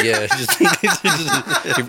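high, giggling cover story; laughing lie. Retold or imitated. Sean laughing while telling the caller he died, giggling. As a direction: giggle through the fake news.

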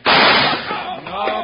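sudden loud high shout. Acted. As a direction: cut him off with a yell. Hickok stops the shooter.

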